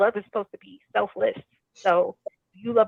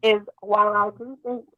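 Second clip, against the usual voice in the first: muffled; 5 dB louder than usual. Real, not acted. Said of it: "You sound muffled".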